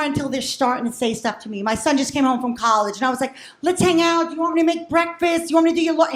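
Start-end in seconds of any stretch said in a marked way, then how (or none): 3.6-6.1 lightly voiced eager mom; eager mother. Mother asking her son home from college to hang out, eagerly. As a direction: offer it all in an eager mom voice.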